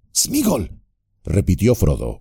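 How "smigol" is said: higher, louder call of the name; raising the voice to be heard; a bit louder. A narrator's reading. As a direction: call out a little more firmly than before. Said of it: "un poco más alto".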